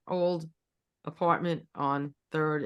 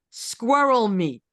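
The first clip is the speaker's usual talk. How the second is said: put-on slow, louder German-accented echo; German tourist echoing the vendor in a mild accent; 4 semitones higher, 6 dB louder, much slower than usual. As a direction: repeat it slowly in a German accent. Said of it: "but in a German accent".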